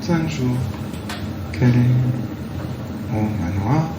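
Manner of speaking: reversed audio, slowed and warped; played backwards. Shown as a demonstration. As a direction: sound as if the tape runs backwards. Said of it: "il suffit que, hop, je l'inverse".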